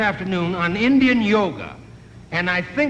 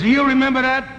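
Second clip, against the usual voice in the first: pushy customer; 6 semitones higher, 5 dB louder than usual. Retold or imitated. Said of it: "He says".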